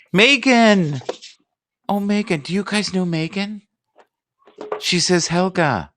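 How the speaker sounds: high-pitched, delighted cry of recognition; excited squeal. Real, not acted. Host spots a dear friend among the viewers, excited.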